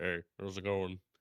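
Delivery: really deep, low male tomcat voice. Showing the voice the speaker gives all male cats: really deep male cat voice. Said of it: "it's always just a really deep".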